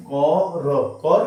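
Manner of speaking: কর said alone, slowly and separately; step-by-step drill; syllable by syllable. Shown as a demonstration. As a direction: break কর্ম into its first part কর. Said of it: "ঠিক এইভাবে আমি যেভাবে করেছি".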